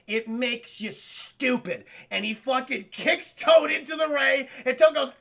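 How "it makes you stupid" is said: slow, drawn-out villain explanation, lightly imitated; Dennis Hopper. Villain explaining his de-evolution ray, lightly mimicked slow menace. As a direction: stretch it out like a pompous movie villain. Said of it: "in Dennis Hopper's, uh, way of saying it".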